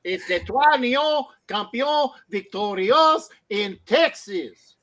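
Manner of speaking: hammed-up French accent, rolled into Detroit; a loud, slow mock French accent for the Lions. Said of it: "wrong accent".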